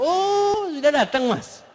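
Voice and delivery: high, offhand greeting; distracted wife. Wife playing on her phone greets her husband offhandedly. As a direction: toss off a greeting without looking up. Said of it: "Istrinya sambil main handphone".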